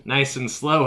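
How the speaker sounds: doggy voice. Shown as a demonstration. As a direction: coo it gently at the pet. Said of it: "I'm getting in my doggy voice".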